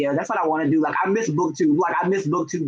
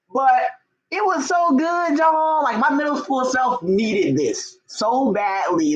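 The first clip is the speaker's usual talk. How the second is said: gushing; 7 semitones higher, slower than usual. Real, not acted. Gushing about favorite book.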